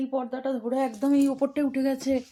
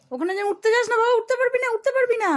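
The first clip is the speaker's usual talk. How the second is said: alarmed warning; 8 semitones higher, 7 dB louder than usual. Real, not acted. Warning pet not to climb.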